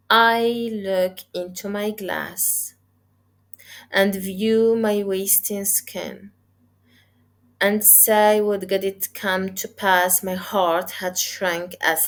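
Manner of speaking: careful recitation with pauses between phrases; teacher reading a poem aloud for students. Shown as a demonstration. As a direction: read the stanza aloud to the class, pausing at line breaks. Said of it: "sometimes I make a pause, sometimes my reading is fast".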